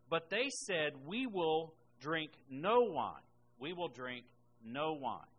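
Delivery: loud, emphatic Bible reading; measured preacher reading aloud; scripture reading. Acted. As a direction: read it out deliberately, leaning on key words. Reads scripture aloud to congregation.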